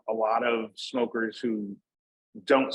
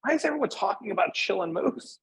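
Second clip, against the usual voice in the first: higher-pitched, mock-indignant question; mock annoyed; 9 semitones higher than usual. Company guys mad about the Chillin' Moose talk, mock annoyed. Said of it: "were getting mad".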